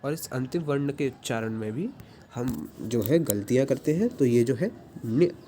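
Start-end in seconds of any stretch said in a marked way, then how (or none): 5.1-5.4 न्य with the tongue on the palate, "nyə"; teacher modelling न्य slowly and clearly; ny sound. Shown as a demonstration. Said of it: "ऐसा इसका उच्चारण होता है".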